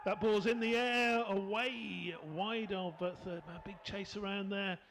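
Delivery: rising call as the ball flies; excited commentary. Real, not acted. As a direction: lift the voice, ball in the air. Ball in the air, big chase.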